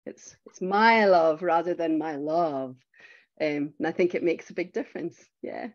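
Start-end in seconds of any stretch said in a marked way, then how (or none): 0.1-2.8 "my love" said first with stress on "my", then with stress on "love"; demonstrating where the stress falls; shifting stress. Shown as a demonstration. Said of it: "puts the emphasis on the different words".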